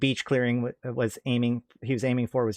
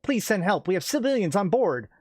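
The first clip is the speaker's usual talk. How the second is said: raised, pressing plea for help; urgent plea; 8 semitones higher than usual. Acted. Pilot begs the watch for help, urgent plea. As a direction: beg the watch to hurry. Pilot pleads over radio.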